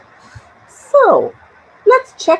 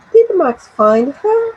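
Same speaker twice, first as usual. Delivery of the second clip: lifted question rising on "her"; question intonation demo; 5 semitones higher than usual. Shown as a demonstration. Teacher marking the intonation, ending in a rise on "her". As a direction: send "her" up at the end. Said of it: "the intonation".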